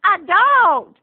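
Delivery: put-on high, slow, pitiful old-lady voice; grandma complaining to her grandson, high and pitiful; whiny grandma. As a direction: plead for sympathy like a sad grandmother. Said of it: "And she says".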